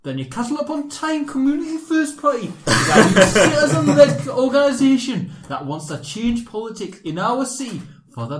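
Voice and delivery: put-on reading in a Geordie accent. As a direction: read it as a Geordie would. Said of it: "Shall I read this in a Geordie accent".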